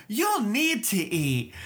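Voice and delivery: slow, flat and mechanical; a light imitation of a dull robot voice; mock robot monotone. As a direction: drag the line out like a bored tutorial. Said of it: "you don't have to be like".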